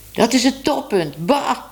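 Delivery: understated shout of disgust; mild mock yell. A narrator's reading. Tibbe sees Minoes lick herself, a mild mock yell. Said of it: "schreeuwde Tibbe".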